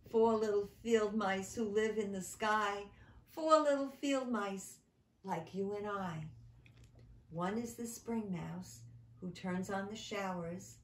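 recited verse, sing-song; rhythmic nursery poem; poem recital. Acted. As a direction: read it like a poem to children. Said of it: "as if from a stage".

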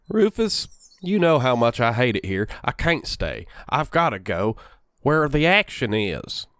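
lightly put-on Western accent, slowing at the end; Evan Rachel Wood. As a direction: slide in and out of a rough Western accent. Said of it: "I'm sliding between Dan Doherty and Evan Rachel Wood".

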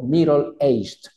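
"middle-aged" slowly, as MI-rol eisht; careful model with tapped D; OL ending. Shown as a demonstration. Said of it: "Por eso digo".

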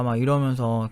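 usual speaking voice

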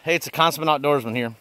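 muffled through a bug mask; through a face mask. Real, not acted. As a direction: talk behind a mosquito mask. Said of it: "I got this mask on my face".

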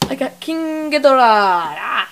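overjoyed loud announcement; excited shout. Real, not acted. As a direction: shout the prize out happily.

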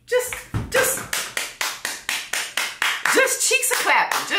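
high, airy mock cheer. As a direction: keep the falsetto mockery going. Mocking voice continues.

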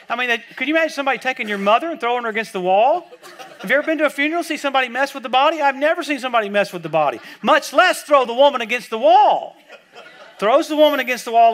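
laughing disbelief. Real, not acted.

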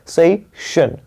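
सेशन with a held "say", then "shun"; lingering pronunciation. Shown as a demonstration. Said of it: "यहाँ पे हमें थोड़ा सा रुकना है". (सेशन, "से" पर रुककर)

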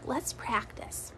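slow hushed words; soft and unhurried, almost a whisper; hushed teacher voice; quiet. Shown as a demonstration. Teacher hushing class to practice.

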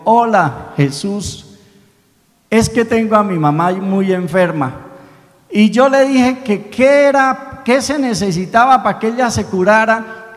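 put-on a poor boy politely explaining his sick mother; little boy's voice. Niño explica al farmacéutico, voz infantil sincera. Boy praying before the crucifix.

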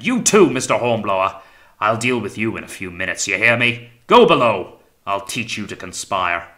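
loud, angry threats with sudden peaks; roaring captain. A narrator's reading. Captain sending both officers below, angry roar. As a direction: order them off in a temper. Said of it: "roared the captain".

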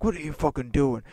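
mild mock scolding; imitating an angry teacher telling someone off; imitated teacher yelling. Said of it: "the teacher was yelling at me".

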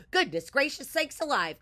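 high, loud, flustered hen; storybook hen in a flap; cackling hen. A narrator's reading. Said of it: "cacked Mabel".

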